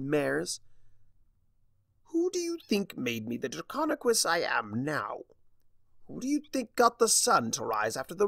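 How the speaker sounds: high, scornful sneer. Acted. Starlight mocking Discord's importance, sneering. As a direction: sneer at his pride. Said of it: "Starlight sneered".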